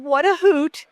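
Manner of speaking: imitating June. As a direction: lightly do June's cheerful "what a hoot". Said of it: "that's how she talked".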